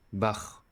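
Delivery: "Bach" ending in back-of-throat friction; German ch. Shown as a demonstration. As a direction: finish "Bach" on a raspy German ch. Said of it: "in German language".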